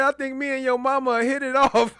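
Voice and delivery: words broken by laughter; laughing while quoting. Real, not acted. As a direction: quote it through a laugh. Repeating the line, cracking up.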